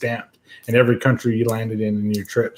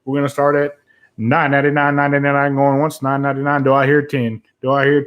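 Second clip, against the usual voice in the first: auctioneer. Shown as a demonstration. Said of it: "I wish I could do the auctioneer's voice".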